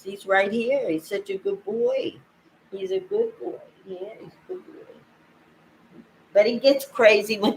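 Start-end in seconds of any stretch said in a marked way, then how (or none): 2.7-3.6 whispered praise. Real, not acted. Cooing to her cat. 3.9-4.9 much higher, very soft cooing. Real, not acted. Cooing to her cat.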